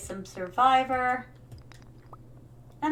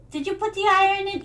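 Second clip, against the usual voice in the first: quick, high, loud nagging mom; mother checking; 7 semitones higher, 5 dB louder, faster than usual. Retold or imitated. Mother checking daughter took her iron. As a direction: press her like a suspicious mother. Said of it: "mom voiced in a story".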